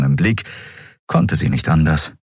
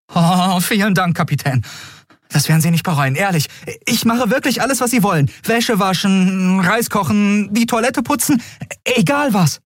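put-on very high, gushing boy's voice; overjoyed boy; 14 semitones higher than usual. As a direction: tumble out thanks eagerly. Overjoyed boy thanks captain.

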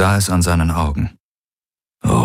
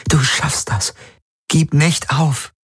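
higher, slow pleading; pleading encouragement; 9 semitones higher than usual. A narrator's reading. Kirai begs Galen not to give up, slow and pleading. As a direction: plead with him to hold on.

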